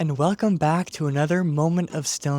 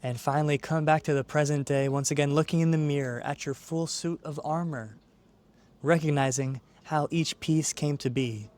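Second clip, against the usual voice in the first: calm, measured meditation guide; guided meditation. Acted. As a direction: ease the listener into stillness, unhurried, with long pauses. Leads a guided visualization.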